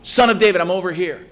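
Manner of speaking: high, strained cry of a blind beggar; shouting for Jesus. Retold or imitated. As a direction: call out over the crowd, pitch climbing. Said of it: "Bartimaeus continues to shout".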